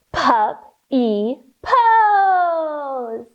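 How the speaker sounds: slow whimpery puppy whisper; teacher bouncing in puppy pose, slow puppy whimper. Pretend. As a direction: drag it out like a whining pup. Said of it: "bounce here for puppy pose".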